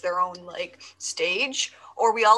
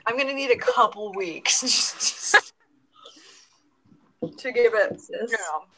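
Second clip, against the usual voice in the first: mouth full. Real, not acted. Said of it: "I'm eating".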